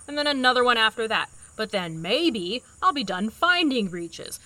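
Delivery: weary, sarcastic list of wishes; sarcastic fairy-tale ending; dreary sarcasm. Acted. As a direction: spin out a sarcastic wish list. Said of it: "this form of dreary sarcasm".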